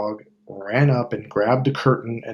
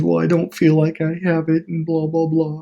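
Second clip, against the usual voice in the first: timid lion; 5 semitones higher than usual. Retold or imitated. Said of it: "And he goes".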